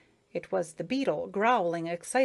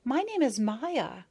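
slow, higher shy introduction; 5 semitones higher, slower than usual. A narrator's reading. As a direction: say it shyly, a little hesitant. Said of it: "said the little bee shyly".

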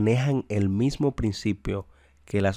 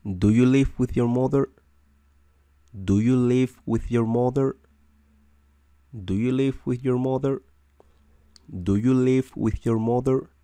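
higher, brighter question drill; teacher repeating the question higher for the class; 4 semitones higher than usual. Shown as a demonstration. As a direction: ask it a bit higher, as a model. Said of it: "y lo decimos tal cual".

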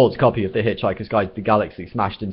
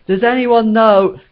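much higher, louder yell; 14 semitones higher, 8 dB louder, slower than usual. Acted. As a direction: yell over the singing. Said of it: "yelled Trillian".

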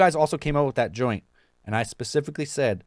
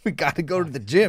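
mock gym bro; 4 semitones higher than usual. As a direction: mimic the eager friends, pushier. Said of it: "these motherfuckers are saying".

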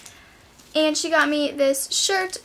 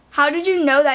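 freaked out; 6 dB louder than usual. Retold or imitated. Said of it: "freaked out".

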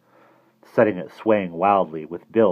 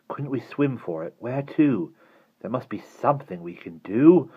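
put-on higher, mildly frantic child; 5 semitones higher than usual. A narrator's reading. Barney searches for an escape, frantic. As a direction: voice rising in urgency. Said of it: "Barney's voice rose frantically".

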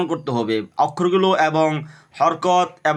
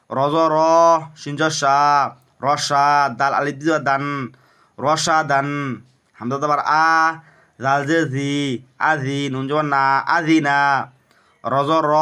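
recitation drill. Shown as a demonstration. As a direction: stretch each final syllable, pausing between units. Leads Arabic spelling drill.

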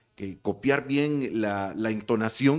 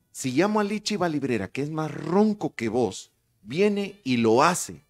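goading challenge; 4 semitones higher than usual. Retold or imitated. Producer's challenge acted out.

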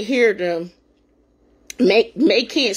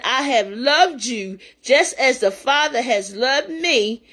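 slow, measured Bible reading; scripture reading. Acted. A preacher reading Scripture to her listeners, slow and reverent. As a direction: read the verses with reverent weight.

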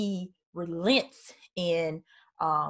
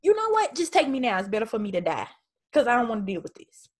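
higher, exasperated give-up; dramatic despair; 3 semitones higher, much faster than usual. Retold or imitated. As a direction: throw up your hands, just take me now. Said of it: "He's like".

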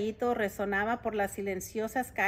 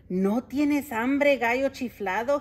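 whining; 3 semitones higher, 6 dB louder, slower than usual. Acted. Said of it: "gimió don Pepe".

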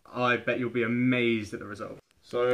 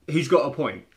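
ordinary talk, nothing marked

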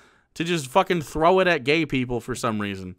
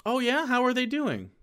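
mom; 7 semitones higher, 3 dB quieter than usual. Pretend.

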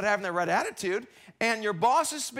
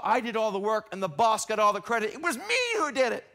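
indignant whine; 2 semitones higher, 3 dB louder than usual. Acted. Voicing resentful employee.

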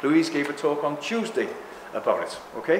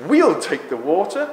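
smug smart aleck; 2 semitones higher, 4 dB louder than usual. Retold or imitated. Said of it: "some smart aleck has said".

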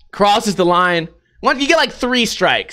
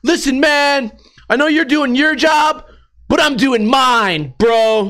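put-on bratty skater kid; 4 semitones higher, slower than usual. Skater kid mouthing off to guard.

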